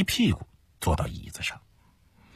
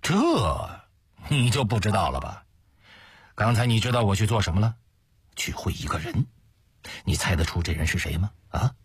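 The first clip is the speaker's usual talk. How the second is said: malicious, smug. Acted. Schemer quizzes Ma about whom he just met, smugly malicious. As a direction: tease him smugly, holding back the secret. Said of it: "用恶毒得意的声调说".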